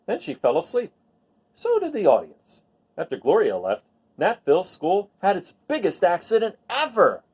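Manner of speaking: lively storybook read-aloud; reading to children. A narrator's reading. Teacher reads a picture book to the class, lively storybook voice. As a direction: tell the story to a class of kids.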